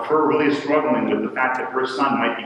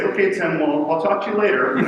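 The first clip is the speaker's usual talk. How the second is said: higher, light laugh through the words; laughing brush-off; 6 semitones higher than usual. Retold or imitated. Ending a phone call with his brother, laughing. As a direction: shrug it off with a chuckle.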